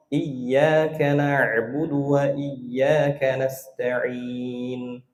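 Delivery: iyyaka with a single light y, very slow; lost tasydid. Shown as a demonstration. Teacher mimics the wrong reading that drops the tasydid. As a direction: read iyyaka as iyaka, no doubled y. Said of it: "Hilang tasydidnya".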